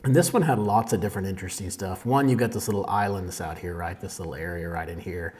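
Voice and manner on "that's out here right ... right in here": talking while phone pings go off; over notification pings. Real, not acted. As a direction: keep talking through notification sounds. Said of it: "sorry about the notifications".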